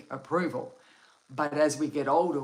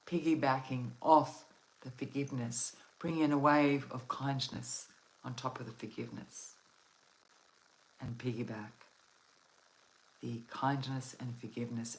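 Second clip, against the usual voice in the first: guided meditation. Acted. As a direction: guide them gently into calm. Leads a relaxation meditation.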